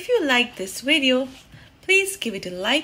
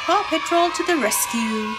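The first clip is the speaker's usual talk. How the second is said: rallying call; 3 semitones higher than usual. Acted. Team rallying cry.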